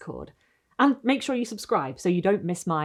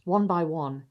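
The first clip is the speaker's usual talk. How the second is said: Gothic story narration. A narrator's reading. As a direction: savour each image like a candlelit tale. Reads Gothic story by candlelight.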